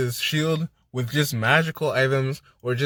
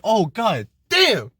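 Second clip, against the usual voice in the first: stunned groan; 6 semitones higher, 4 dB louder, slower than usual. Retold or imitated. Stunned reaction to the twist.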